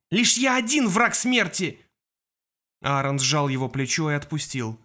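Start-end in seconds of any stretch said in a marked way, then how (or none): 0.1-1.8 high, slow vehement cry; bitter. A narrator's reading. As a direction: declare it in despair. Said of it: "прошипел Кол".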